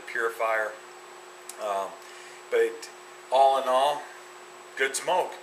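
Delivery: talking around a cigar; cigar in mouth. Real, not acted. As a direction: lips closed on cigar. Seen 1: Cigar held between lips throughout the labelled words; not in references.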